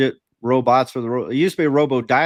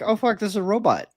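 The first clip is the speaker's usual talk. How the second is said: high-pitched mock dismay; retold dismayed realization; 7 semitones higher than usual. Caller realizing it's a robot, high mock dismay. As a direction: re-enact the letdown of being fooled. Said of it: "And then I realized, like".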